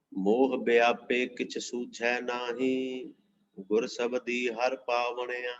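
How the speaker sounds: drawn-out, measured reading of a holy verse; slow devotional recitation. Acted. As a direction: intone each word of the verse with reverence. Recites scripture verse slowly.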